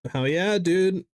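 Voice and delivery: high, pumped-up cheer; excited cheer. Real, not acted. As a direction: celebrate like you got good news. Cheering queue progress.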